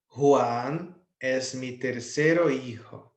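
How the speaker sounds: tercero said slowly in full, before the o is removed; wrong form, slow. Shown as a demonstration. Teacher to students, slowly reading the uncorrected sentence. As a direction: read tercero hijo slowly, as the form to fix. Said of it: "vou tirar a letra O no final".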